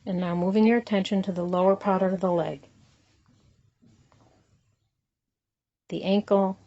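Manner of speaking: unhurried body-scan guidance with long pauses between phrases; guided meditation. Acted. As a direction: calmly lead them through it, leaving room to breathe.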